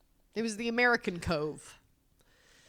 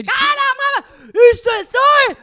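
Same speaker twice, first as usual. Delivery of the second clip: high, shouted imitation; mock loud talker; 14 dB louder, slower than usual. Wife mimicking loud family in a restaurant, shouting. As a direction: blare it out far too loudly. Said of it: "talking so loud in a restaurant".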